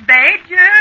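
loud high call across the beach. Acted. Wife searching the beach, calling out loudly. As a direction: call out for him, worried.

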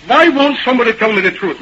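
mildly heated boss; acted exasperated outburst; exasperated complaint. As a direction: demand it in frustration. Boss complains to his secretary.

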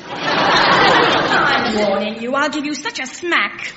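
slow, drawn-out laughing warning. Acted. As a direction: warn while trying not to laugh. Threatening while laughing.

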